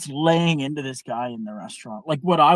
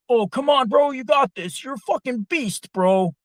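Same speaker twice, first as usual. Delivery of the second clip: much higher, louder egging on; mock drunk cheering; 11 semitones higher, 5 dB louder than usual. Drunk guys in his face urging him to lift, loud cheering. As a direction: pump him up, drunk and pushy. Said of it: "getting in my face".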